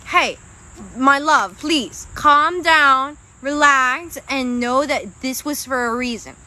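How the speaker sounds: slow, soothing voice of a spirit guide, lightly done. Pretend. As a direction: ease her down gently like a caring guide. Voicing Spirit calming the client.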